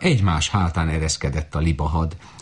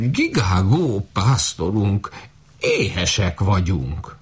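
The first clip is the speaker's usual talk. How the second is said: slow plaintive goose voice; hungry goose; 3 semitones higher, slower than usual. Acted. Hungry geese whining to their shepherd, slow and plaintive. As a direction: whine slowly like a hungry goose.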